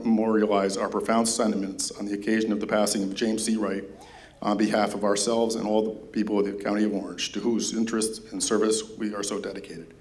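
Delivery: winded, reading out of breath; short of breath while reading. Real, not acted. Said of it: "Sorry, I'm out of breath here".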